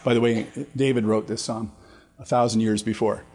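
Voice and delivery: steady scripture reading voice; psalm reading. Acted. Pastor reads Psalm twenty-two to the class, steady. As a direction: read the psalm with gravity.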